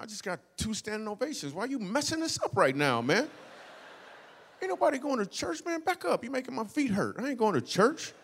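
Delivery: high-pitched, whiny protest; indignant refusal. Retold or imitated. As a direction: complain in an exasperated high voice. Acted indignant refusal of church invitation.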